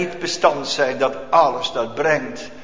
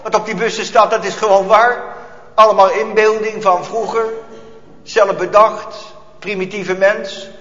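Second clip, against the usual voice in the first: taunting inner voice; 4 semitones higher than usual. Retold or imitated. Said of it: "zeggen ze van binnen".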